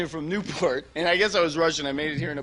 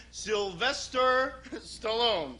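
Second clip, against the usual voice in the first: Stallone impression; 4 semitones higher, 6 dB quieter, much slower than usual. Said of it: "here's a quick impression".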